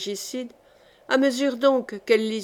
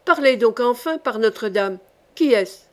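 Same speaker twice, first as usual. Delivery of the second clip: king's shout. Acted. The king yells at the duke to name the murderer, mild shout. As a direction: press him hard, half-shouting. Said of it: "hurla le roi".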